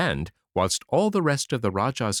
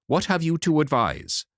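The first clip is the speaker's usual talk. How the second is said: anxious; 6 semitones higher than usual. Acted. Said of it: "said the Rajah anxiously".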